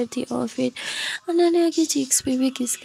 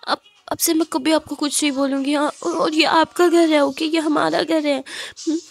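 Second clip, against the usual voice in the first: soothing; 4 semitones higher than usual. Acted. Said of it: "तो खुशी बोलती".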